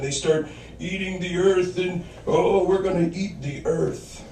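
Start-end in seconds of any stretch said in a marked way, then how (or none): 2.3-4.2 silly monster. Pretend. Monsters voiced eating earth.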